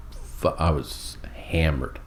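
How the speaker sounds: slow hushed whisper. Real, not acted. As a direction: drop to a whisper. Drunk confession, hushed.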